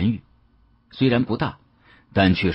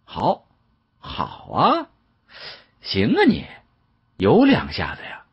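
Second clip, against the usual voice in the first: jumps high on the praise; grudgingly impressed applause; cheering; 3 semitones higher, slower than usual. Acted. Young man praising the shopkeeper's sharp eye, excited. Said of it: "连声叫好".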